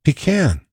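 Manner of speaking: "He can" as "PEE-can", to echo "we can"; New York-style pecan. Shown as a demonstration. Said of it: "the other one I can't seem to shake".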